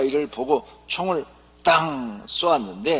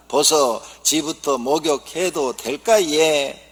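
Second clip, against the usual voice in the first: Gyeongsang wife asking; 3 semitones higher, 6 dB louder, slower than usual. Acted. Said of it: "경상도 아내가".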